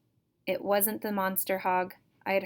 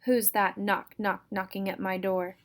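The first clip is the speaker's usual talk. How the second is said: put-on shrill old woman. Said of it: "a shrill voice called".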